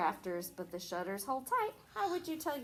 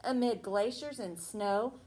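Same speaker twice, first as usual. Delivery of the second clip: sing-song storybook reading; reading to children. Acted. Teacher reading a Christmas rhyme to a child. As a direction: read the rhyme to the little ones. Teacher reads picture book aloud.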